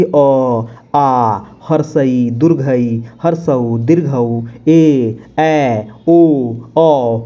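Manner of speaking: each vowel अ, आ, हर्षई, दुर्घई drawn out slowly one by one; slow vowel recitation. Shown as a demonstration. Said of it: "अब जैसे कि". (स्वरों को धीरे-धीरे एक-एक करके बोलना)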